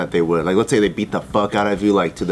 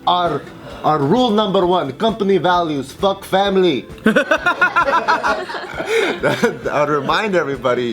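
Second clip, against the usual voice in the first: mock villain boss; 8 semitones higher, slower than usual. Mock company boss speech.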